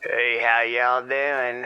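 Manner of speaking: put-on Southern accent. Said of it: "that was an unexpected accent".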